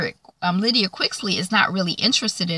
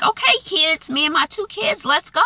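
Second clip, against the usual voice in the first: eager relief; 10 semitones higher than usual. Retold or imitated. Mother hurries her children out.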